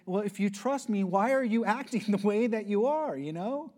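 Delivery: mock disbelief at her fear; exasperated dad. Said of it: "I said".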